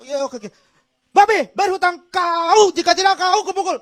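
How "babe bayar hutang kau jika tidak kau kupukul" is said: put-on stiff Medan accent. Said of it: "Cut, yang bener dong".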